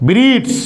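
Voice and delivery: long, held ee in "breeds"; long vowel. Shown as a demonstration. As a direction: stretch the ee of "breeds". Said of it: "long sound". ("breeds" में लंबी ई)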